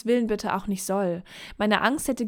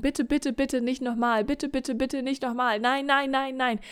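higher, begging voice; pleading fear; 4 semitones higher than usual. Acted. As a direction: plead like a frightened child. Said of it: "die einfach schreien und sagen". (ängstliches Flehen, höher)

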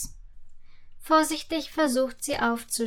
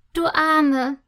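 louder, pitying exclamation; compassionate; 3 semitones higher, 5 dB louder than usual. A narrator's reading. Sugar fairy to freezing Susi, compassionate. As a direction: feel for her, mildly. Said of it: "meint die Zuckerfee mitfühlend".

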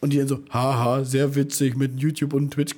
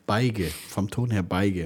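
Beige with hard g, "Beige" as "bai-ge"; East German accent; 5 semitones lower, slower than usual. Retold or imitated. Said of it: "wie der Ostdeutsche sagen würde".

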